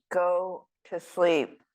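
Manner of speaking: slow, worn-out mock mother; mother at her wits' end, slowly repeating herself; tired mother. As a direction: drag the words out like an exhausted mom. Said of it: "increasingly tired".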